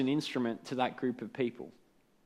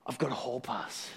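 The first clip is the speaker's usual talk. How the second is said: half-cocky; 4 semitones lower, 8 dB quieter than usual. Retold or imitated. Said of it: "half confidence, half cockiness".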